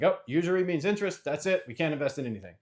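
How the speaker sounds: high, sing-song mockery of a zealot; mimicking an oversaved Christian; mock preachy believer. Mocking overzealous believers' rigid view.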